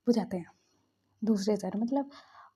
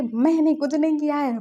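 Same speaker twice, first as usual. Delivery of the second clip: higher, louder retold protest; protesting innocence; 4 semitones higher, 5 dB louder than usual. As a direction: insist hotly on your innocence.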